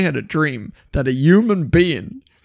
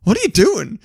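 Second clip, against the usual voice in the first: high-pitched baffled questioning; mock bewilderment; 8 semitones higher, 4 dB louder than usual. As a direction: react baffled to a silly noise. Acted reaction to dog's noise.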